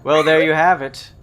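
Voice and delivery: booming auctioneer call; loud announcement. Acted. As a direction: announce it to the room.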